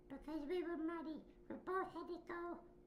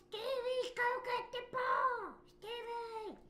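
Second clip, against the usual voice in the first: higher, louder, slow sing-song call; friends calling; 5 semitones higher, 5 dB louder, slower than usual. Retold or imitated. Friends at kickball shouting at Stevie to fetch the ball. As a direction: yell across the playground to him. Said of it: "they were like".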